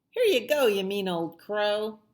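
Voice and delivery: high, loud call up at the crow; loud taunt. Acted. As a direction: fling it up at the greedy crow.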